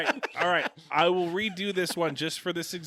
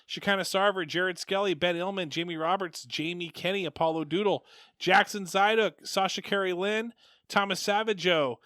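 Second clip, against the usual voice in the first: higher, rhythmic reading of a list of names; sing-song list read, last name stretched; roll-call reading; 5 semitones higher, 3 dB louder than usual. Real, not acted. Reads out patron list.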